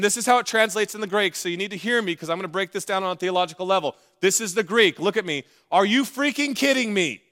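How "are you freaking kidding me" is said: mock indignation. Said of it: "That's what he's saying".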